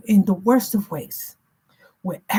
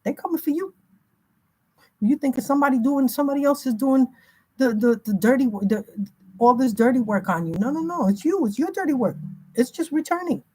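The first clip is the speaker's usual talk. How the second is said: higher mock voice of spirits scolding; 6 semitones higher than usual. Spirits telling the conjurer it's their own karma, higher mock scolding. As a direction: spirits taunting the one who called them. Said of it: "They're saying".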